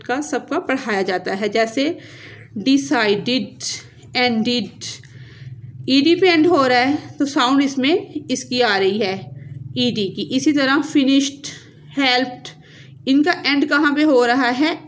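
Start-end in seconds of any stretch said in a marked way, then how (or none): 2.6-4.7 "डिसाइडेड, एंडेड" ending in a full id syllable. Shown as a demonstration. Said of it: "तो हमें आईडी की sound आएगी". 10.8-12.5 "फिनिश्ड, हेल्प्ड" ending in a crisp t. Shown as a demonstration. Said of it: "यानी कि टी sound पे".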